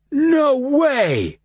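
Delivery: high, loud burst; excited shout. A narrator's reading. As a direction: throw it out loud. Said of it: "voice had risen in volume".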